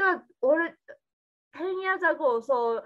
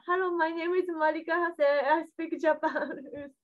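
lightly acted beginner's phone greeting, slightly higher pitch; phone introduction; 4 semitones higher, 3 dB quieter than usual. Newcomer cold-calling porn studios in Japanese-accented English, lightly acted phone introduction. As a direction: recite a rehearsed self-introduction, quick and a little higher.

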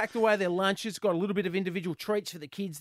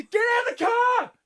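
much higher, loud shouted order; 6 dB louder than usual. Retold or imitated. Dad yelling at the kids at school drop-off, loud shout. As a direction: bark it out the car window.

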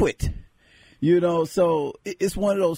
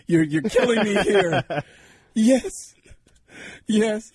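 higher, pained surrender; mock anguished husband; 6 semitones higher than usual. Husband who must say yes gives in, high mock anguish. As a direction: give in with comic agony.

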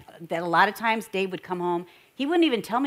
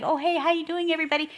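higher, forced smiling hello; fake-friendly greeting; 6 semitones higher, faster than usual. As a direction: greet the crowd through a fixed smile. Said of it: "he looks at me. He's smiling".

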